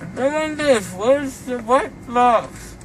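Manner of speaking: high, laughing voice; giggling through the words. Real, not acted.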